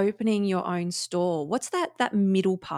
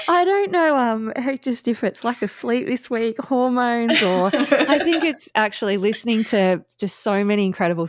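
teary laughing, pitched up; giggly and choked up; emotional laughter; 3 semitones higher, 3 dB louder than usual. Real, not acted. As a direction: laugh it off while close to tears. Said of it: "I'm really emotional on this side of it".

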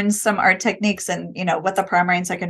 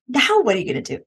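eager question, a little higher; excited; 4 semitones higher, faster than usual. Shown as a demonstration. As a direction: invite the kid to the next step, keen. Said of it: "like, excited".

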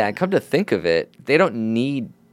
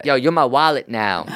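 higher-pitched rapper impression; an impression of a rapper; 5 semitones higher than usual. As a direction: put on a rapper claiming his sidekick. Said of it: "that's a good rapper impression".

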